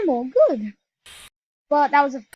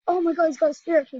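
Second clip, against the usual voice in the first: higher, louder and fast; thrilled; 4 semitones higher, 5 dB louder, faster than usual. Real, not acted. Telling viewers his teammate got a spirit key, thrilled and fast. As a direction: blurt it out in a rush of excitement.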